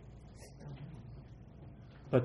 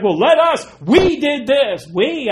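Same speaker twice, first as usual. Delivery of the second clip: much higher, loud, whiny insisting; mock Moses; 12 semitones higher, 9 dB louder than usual. Moses insisting "we did this", high whiny mock. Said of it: "He's like".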